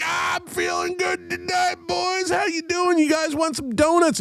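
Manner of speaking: put-on very high, drawn-out drunk yell; drunken screaming. Drunk drummer screaming hello at a gas station full of cops. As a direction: holler it like a wasted bandmate greeting the cops. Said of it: "he's fucking screaming on the top of it".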